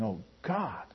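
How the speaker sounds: low, hushed awe; soft, low exclamation of wonder; reverent amazement. Acted. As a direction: breathe it softly, as if face down in worship. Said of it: "laughing and saying".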